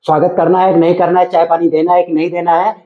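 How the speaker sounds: irritated, dismissive refusal; angry. Acted. Husband disowning wife's mother, angry. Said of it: "क्यों इतना गुस्सा हो रहे हो".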